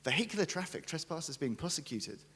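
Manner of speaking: high-pitched, officious warning notice; mock-stern legal threat; shouty legalese. Shown as a demonstration. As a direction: read it like aggressive small print in capitals. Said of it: "aggressive capital letters, shouty, different, very legalese tone".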